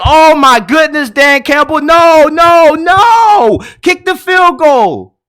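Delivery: begging the coach to kick; exasperated yelling. Retold or imitated. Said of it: "And I'm just like".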